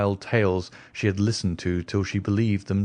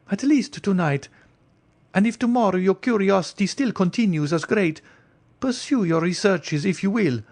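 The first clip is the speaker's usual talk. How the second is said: higher, anxious noblewoman's voice; the Countess; 11 semitones higher than usual. Acted. Countess warning Franz away from the stranger, higher anxious voice.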